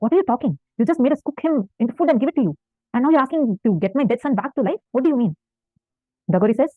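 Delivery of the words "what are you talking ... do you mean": mildly incredulous, higher-pitched questioning; puzzled parents. Retold or imitated. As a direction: voice the parents' baffled protest. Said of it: "They both are puzzled".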